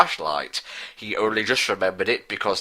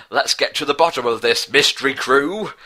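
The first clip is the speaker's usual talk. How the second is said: bravely; 3 semitones higher than usual. Acted. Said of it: "said braviarily".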